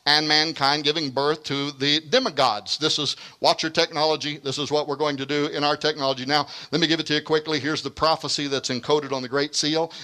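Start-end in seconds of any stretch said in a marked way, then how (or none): 4.4-7.6 hurried, rapid aside; quick, rushed lecture delivery; talking too fast. Real, not acted. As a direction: rattle it off to save time. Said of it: "Am I talking too fast?".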